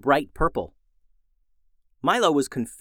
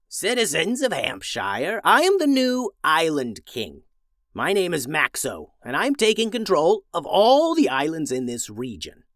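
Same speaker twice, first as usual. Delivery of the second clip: a villainous wizard's proclamation, raised and slowed; wizard yelling; 3 semitones higher than usual. Acted. Wizard on a dragon declares himself king to the villagers, menacing proclamation. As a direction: announce your rule from dragonback, grandly menacing. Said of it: "began yelling".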